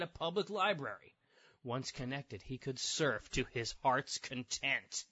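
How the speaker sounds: measured TV reporter delivery; earnest newscast narration; news report read. Acted. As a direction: read it like a local news feature. Reads news article aloud.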